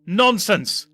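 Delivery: high, loud indignant retort; spat back. Acted. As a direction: spit the word out. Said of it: "the doctor spat back".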